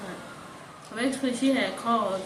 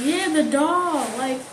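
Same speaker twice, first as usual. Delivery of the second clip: higher, louder mock insistence; imitated urgency; 5 semitones higher, 5 dB louder than usual. Grandma on the phone demanding the doll, imitated urgency. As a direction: press the question as an imitated anxious caller. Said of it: "she acting like it was so important".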